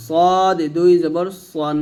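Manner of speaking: slowly stretched "সদ", ending on o in "সন"; rounded "সন". Shown as a demonstration. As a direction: give "সন" a round o, slow and deliberate. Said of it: "সন বলতে হবে".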